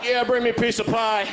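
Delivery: dad voice. Retold or imitated. Dad ordering pie.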